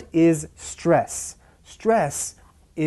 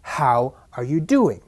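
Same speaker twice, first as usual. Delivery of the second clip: "how" and "doing" stressed, "are you" light; rhythmic, with beats on "how" and "do". Shown as a demonstration. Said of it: "rhythm is stressed on the first".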